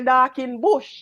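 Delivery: lightly imitated Chinese-Jamaican "dark in bush"; a hint of Chinese-Jamaican accent; Chinese man's broken English. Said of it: "China man don't speak good English".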